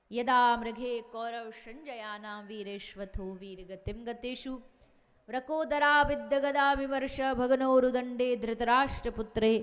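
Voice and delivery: sustained shloka delivery, swelling in volume; Sanskrit verse recitation. Acted. Preacher quotes the Bhagavat to the congregation, reciting verse. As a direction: recite scripture steadily, building to a loud finish.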